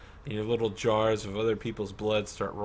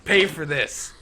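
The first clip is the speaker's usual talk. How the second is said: raised, loud boastful villain with a laugh; a gloating rival warrior, higher and louder; 7 semitones higher, 14 dB louder than usual. Acted. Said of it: "and says".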